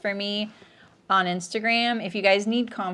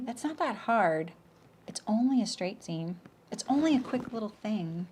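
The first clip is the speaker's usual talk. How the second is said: soft, minimizing mock-customer voice; imitating dismissive customers; 6 dB quieter than usual. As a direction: play down the job like a customer. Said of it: "That's what they say".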